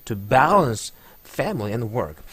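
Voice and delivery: very slow, balance punched; slow demo of balance stress. Shown as a demonstration. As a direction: hit balance hard. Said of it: "강세 들어가죠".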